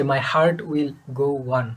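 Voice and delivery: very slow, measured title; drawn-out song title. Shown as a demonstration. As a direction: stretch the words out slowly. Names the famous song title.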